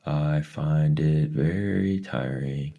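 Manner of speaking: high, slow, drawn out; eerie voice. Acted. Mrs Which not materializing, high and slow. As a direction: speak from nowhere, slow and strange.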